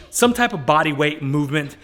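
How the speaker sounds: ordinary talk, nothing marked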